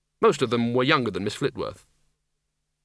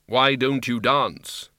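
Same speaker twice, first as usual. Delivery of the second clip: slow, grave Death voice; grim reaper voice; much slower than usual. Acted. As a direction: ask it slowly as Death. Death speaks slowly.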